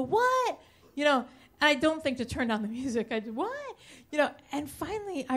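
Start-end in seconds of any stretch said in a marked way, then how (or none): 0.0-0.6 high, loud what over blaring music; shouted what. Retold or imitated. 3.3-3.8 high what yelled over blaring music; shouted what. Retold or imitated.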